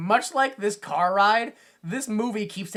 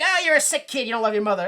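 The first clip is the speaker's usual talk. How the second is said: mock scolding; 4 semitones higher, 4 dB louder, much faster than usual. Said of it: "And they're like".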